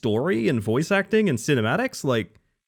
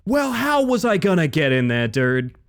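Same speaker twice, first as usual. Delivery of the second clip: exasperated protest; 5 semitones higher, 4 dB louder than usual. Real, not acted. Protests unfair game.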